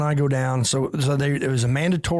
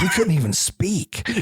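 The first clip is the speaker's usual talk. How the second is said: laughing; 5 semitones higher, slower than usual. Real, not acted. Laughing while retelling.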